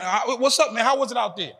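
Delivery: lightly acted yard greeting; casual greeting. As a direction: greet an old buddy, curious for news. Acted greeting to returning inmate.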